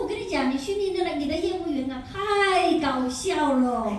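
lightly acted amused raving; amused customer. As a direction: imitate a tickled client, dragging out the final phrase. Acts owner marveling at funny salesman.

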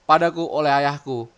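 pidato dramatis yang lantang di akhir; Momonosuke. Acted. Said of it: "kata-kata dari si Momo ini". (deklamasi dramatis, makin lantang dan lambat)

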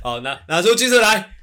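loud and giggly; barely holding in laughter; trying not to laugh. Real, not acted.

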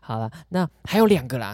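usual speaking voice

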